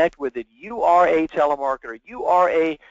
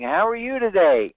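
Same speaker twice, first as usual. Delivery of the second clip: mock salesperson; 4 semitones higher than usual. Mimicking salesperson's telltale opening line.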